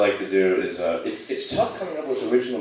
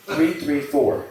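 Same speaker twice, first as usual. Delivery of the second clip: slow, deliberate digit group; 3 semitones higher, much slower than usual. Shown as a demonstration. Teaching the visitor to group his number, slow. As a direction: spell the digits out slowly. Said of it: "I showed him the dashes".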